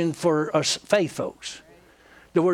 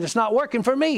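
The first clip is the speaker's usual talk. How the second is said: higher-pitched exasperated quote; retold anger; 6 semitones higher than usual. Preacher repeating what his frustrated friend said, mildly angry. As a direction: repeat a friend's complaint with mock indignation. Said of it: "Another thing I'm mad about".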